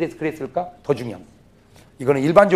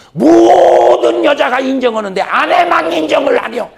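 high, loud, slow emphatic cry; loud exclamation; 11 semitones higher, 10 dB louder than usual. Real, not acted. 설교자가 회중에게 높고 크게 천천히 외침. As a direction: drive home the complaint.

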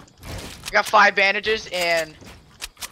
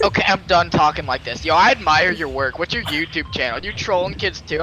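lower, matter-of-fact imitation of the kid; kid dropping the act; 4 semitones lower than usual. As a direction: switch to a lower, sincere register, imitated. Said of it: "after that, he's like".

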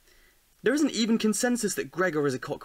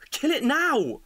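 loud order; 7 semitones higher, 3 dB louder than usual. Acted. Argument over killing cockroach.

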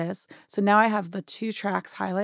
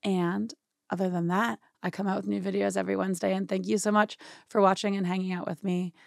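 ordinary talk

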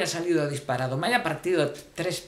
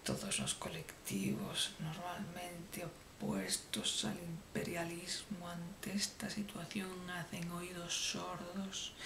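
hushed, slow, much softer mock-tragic whisper; mock-dramatic whisper; 2 semitones higher, 14 dB quieter, slower than usual. Comic narrator laments invading sadness in a hushed whisper. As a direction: breathe it like a grave secret.

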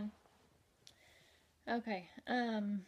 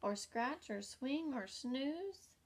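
relieved ladybug; 4 semitones higher than usual. Acted. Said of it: "thought the lazy ladybug".

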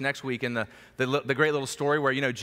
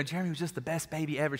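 Southern mom voice; 7 dB quieter, faster than usual. Retold or imitated. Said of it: "She's a Southern mom".

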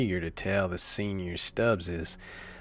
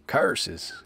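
mock villain outburst, higher; villain's cry; 6 semitones higher than usual. Foiled squire curses the lovers, hammed-up cry. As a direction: spit it out like a melodrama villain. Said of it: "he cried".

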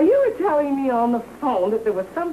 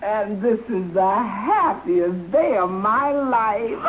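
happy, slow, then laughing out; overjoyed laughter; laughing with joy; 3 semitones lower, slower than usual. Acted. Bride's happiest day.

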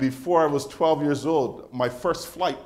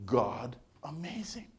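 quiet awe; 2 semitones higher, 8 dB quieter, slower than usual. Retold or imitated. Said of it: "he's looking at spider webs going".

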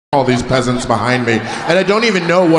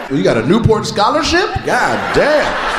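higher, laughing imitation of the woman; mock her cackling reaction; lady impression; 5 semitones higher, slower than usual. Comic voicing the laughing wife in the crowd. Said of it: "She's like".

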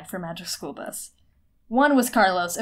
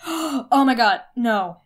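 sudden realization; slower than usual. Real, not acted. Sudden idea about bros.

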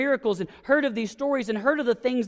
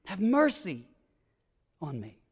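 desperate yell; 5 dB louder than usual. Retold or imitated. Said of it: "he yells at the top of his lungs out of sheer desperation".

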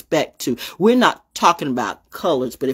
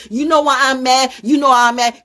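angry demand; 7 semitones higher, 5 dB louder than usual. Real, not acted. Angry rant at critics.

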